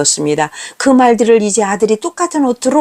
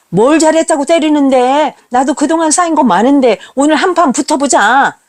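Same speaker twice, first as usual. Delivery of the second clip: defiant challenge; 4 semitones higher than usual. Retold or imitated. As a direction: square up to her. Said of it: "라고 하며 대들었습니다".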